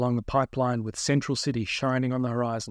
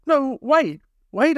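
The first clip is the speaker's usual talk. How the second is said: high, louder, desperate interruption; urgent plea; 12 semitones higher, 7 dB louder, much slower than usual. A narrator's reading. Captive trying to lift his head, urgent pleading. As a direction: stop them urgently, pitch jumping up. Captive begs for another chance.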